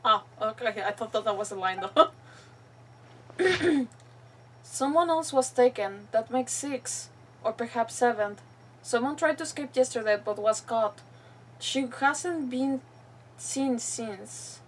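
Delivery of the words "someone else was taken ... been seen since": halting, subdued read-aloud; reading a captive's diary. Acted. Player reading a captive's last notes aloud, subdued reading.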